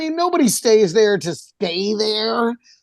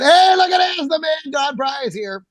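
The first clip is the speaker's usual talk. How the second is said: excited greeting; 6 semitones higher than usual. Retold or imitated. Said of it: "and then".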